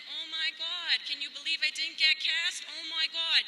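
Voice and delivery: hammed-up Jersey girl from the New Jersey shore; Jersey girl accent. Comedian at the SNL audition putting on a mock Jersey girl accent. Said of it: "doing my best Jersey girl accent".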